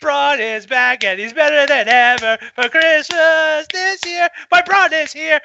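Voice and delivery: very high, loud fangirl squeal; squealing with joy. Retold or imitated. Fan at Braun's return, squealing joy. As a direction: squeal like a thrilled girl. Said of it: "it was like".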